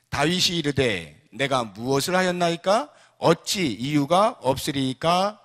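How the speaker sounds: loud, measured read-aloud; slow, drawn-out recitation of the verse; scripture reading. Acted. Preacher leads congregation in reading David's reply, loud recitation.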